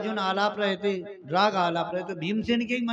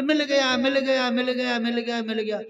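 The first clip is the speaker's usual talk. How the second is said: excited shouting; 4 semitones higher than usual. Retold or imitated. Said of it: "आदमी चिल्लाते हुआ आया".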